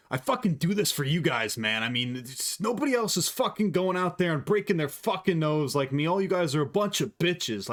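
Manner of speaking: mock a fighter's post-fight rant; Sean Strickland. Imitating a beaten fighter on the mic, mock rant. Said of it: "him getting on the mic after".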